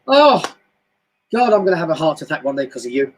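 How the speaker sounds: exasperated woman. Retold or imitated. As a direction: ham up a fed-up woman blaming someone. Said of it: "will turn around and go".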